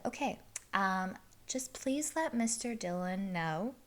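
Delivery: serious, restrained restaurant host. Retold or imitated. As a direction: state the policy seriously, quietly. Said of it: "get my serious voice".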